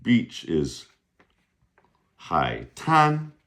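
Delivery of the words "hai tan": "hai tan" deliberate, ending on high level "tan"; model pronunciation. Shown as a demonstration. Teacher giving beach word to repeat, clear high "hai tan". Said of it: "Repeat after me".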